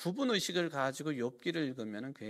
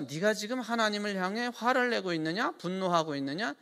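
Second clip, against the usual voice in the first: raised, louder reproach; Eliphaz rebuking; 8 semitones higher, 5 dB louder than usual. Acted. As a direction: scold Job for his anger. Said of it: "이게 지금 엘리바스가". (엘리바스가 욥을 나무라는 질책)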